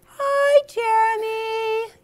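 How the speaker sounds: high sing-song hi, stretched slowly; sweet little-girl hello; girl's greeting. Acted. Jessica greeting her friend at the river, high and slow. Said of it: "Jessica said".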